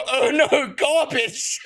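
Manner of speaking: put-on high, laughing little-kid "oh no, garbage"; imitating his daughter. Dad imitating his daughter pointing at a signboard, laughing. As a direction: do the daughter's line through laughter. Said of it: "she'll point at a signboard and go".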